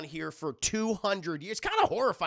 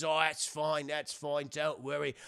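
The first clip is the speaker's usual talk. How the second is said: pirate captain; slower than usual. Retold or imitated. Monty as fake captain reassures crew.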